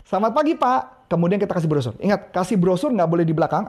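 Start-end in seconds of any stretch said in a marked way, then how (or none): 0.1-1.1 higher, smiling selamat pagi; smiling greeting. Shown as a demonstration. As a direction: greet with a smile. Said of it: "Senyum dulu". (sapaan sambil tersenyum)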